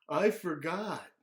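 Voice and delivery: high, slow sheepish excuse; drawn-out little-boy excuse; mild childish whine; sheepish kid. Acted. David walking in underwear.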